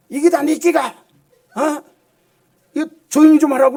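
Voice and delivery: mock angry scolding. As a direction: snap at the noisy student, hammed up.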